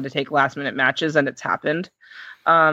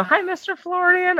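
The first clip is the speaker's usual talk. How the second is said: high, stiffly polite mock-professional hello; overly formal greeting. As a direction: play it prim and proper, like a nervous newcomer. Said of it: "I gotta be professional".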